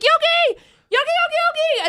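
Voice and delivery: very high, sing-song calling of the name; sing-song dog call. Retold or imitated. Owner calling her dog Yogi, very high sing-song. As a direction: call the dog in a squeaky baby voice.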